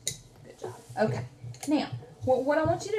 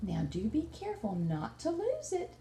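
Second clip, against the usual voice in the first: gentle teasing; 7 dB quieter than usual. Acted. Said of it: "she teased him".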